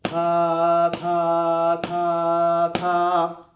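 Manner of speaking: each ta punched loud and detached; separated ta syllables. Shown as a demonstration. Teacher showing students how to tongue notes. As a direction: say ta ta ta ta, strongly separated. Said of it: "Say that with me".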